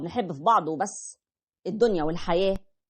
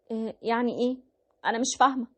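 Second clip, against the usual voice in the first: puzzled wife; 3 semitones higher, faster than usual. Retold or imitated. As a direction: play the wife not getting it. Wife voiced confused. (الزوجة مستغربة بصوت أعلى)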